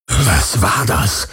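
slow, startled ghostly question; suddenly on guard; alarmed. A narrator's reading. The phantom hears the Helix and asks, alarmed. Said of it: "Das Phantom klang alarmiert".

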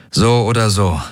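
gedrückt und schwer; resigniert, mit Gewicht; schwere Stimme. Acted. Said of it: "sagte Garland mit schwerer Stimme". (Garland mit schwerer Stimme zu Daraios, gedrückt)

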